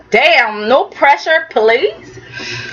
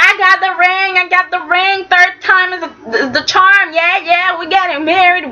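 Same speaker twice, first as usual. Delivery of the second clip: giddy; 5 semitones higher than usual. Retold or imitated. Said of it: "she was super happy".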